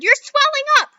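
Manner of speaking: mother screams as Violet turns blue; screaming mother. Acted. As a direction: draw the scream out in horror.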